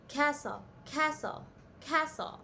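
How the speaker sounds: castle as "KASS-ul", silent T, softly spaced repeats; repeated model pronunciation. Shown as a demonstration. Teacher drills castle for learners to repeat, softly with silent T. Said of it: "try to repeat that".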